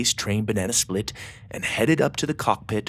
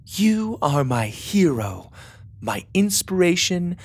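reading a letter aloud; 6 semitones higher, much slower than usual. A narrator's reading. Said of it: "She continued".

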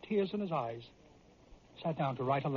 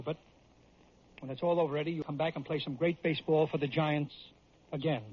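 lower, halting admission that steadies into encouragement; humbled reassurance; 4 semitones lower than usual. Acted. Manager making peace with his departing player, humbled and sincere. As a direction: concede gently, with pauses. Manager relents after hearing of enlistment.

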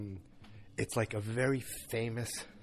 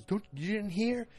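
incredulous; 12 semitones higher than usual. Retold or imitated. Harry telling coworkers.

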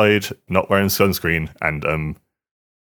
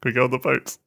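pleading; 8 semitones higher, faster than usual. Retold or imitated. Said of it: "so I was just like".

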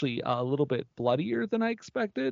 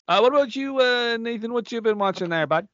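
playful high voice; 8 semitones higher, 4 dB louder than usual. Acted. Host playfully asking Nathan.

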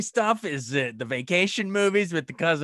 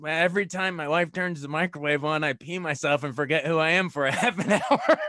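laughing through a quote. Retold or imitated. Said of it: "he says".

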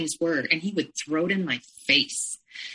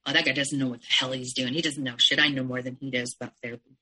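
lower, quick dismissive grumble in his voice; a hint of an angry husband scoffing; mild mock anger; 4 semitones lower, faster than usual. Abusive husband scoffing at the therapist, mildly mock angry. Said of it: "that made the abuser angry".

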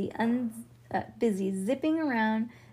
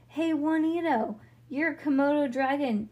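yelling; 5 semitones higher than usual. Acted. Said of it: "Leo yelled".

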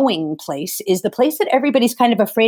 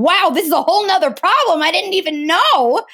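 high, far-off wow of discovery; retold surprise; 7 semitones higher than usual. Retelling a social media thread, higher surprised wow. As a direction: voice her past self stumbling on new news. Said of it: "so here I am going".

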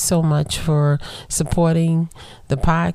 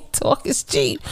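wry quote; 11 semitones higher than usual. Retold or imitated. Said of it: "somebody once told me that talk is cheap".

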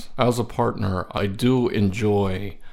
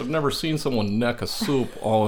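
amazed; 5 semitones higher, 3 dB louder than usual. Real, not acted. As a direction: drag it out in disbelief. Amazed at soup drunk fast.

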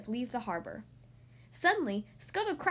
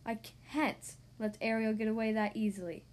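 sea witch voice; 4 semitones lower, 3 dB quieter than usual. Acted. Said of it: "said the sea witch".

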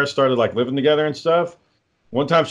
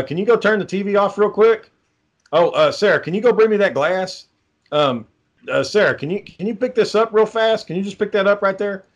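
higher, sing-song pestering requests; mock nagging; 7 semitones higher than usual. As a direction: pester her over and over, hamming it up. Mocks wife with nagging requests.

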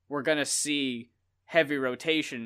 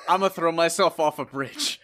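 imagined dramatic despair; 5 dB louder than usual. Retold or imitated. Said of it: "I, in my head, was like".

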